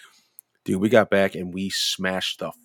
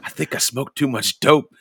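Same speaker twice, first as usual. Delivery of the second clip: lightly imitating a stoned giggler; louder, higher mock stoner confession; Magoo; 6 semitones higher, 5 dB louder than usual. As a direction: play the giggly stoned friend. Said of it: "Magoo starts getting this giggle going".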